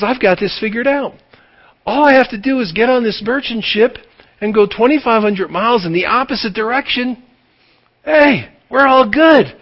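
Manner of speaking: smug Jonah. Retold or imitated. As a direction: sound pleased with your own plan.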